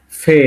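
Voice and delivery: ফে as a long "feh"; pronunciation demo. Shown as a demonstration. Teacher naming a Russian letter, ফে drawn out as "feh". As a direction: model ফে with a clear f, vowel held. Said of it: "মানে ফ এর উচ্চারণ".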